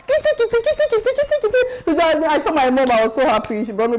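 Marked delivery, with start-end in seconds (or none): 0.1-1.6 rapid, very high pattering sound; imitated running noise. Student rushing to see mom on visiting day, high imitated patter. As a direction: patter it out high like scurrying feet.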